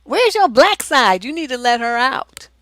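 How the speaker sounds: ordinary delivery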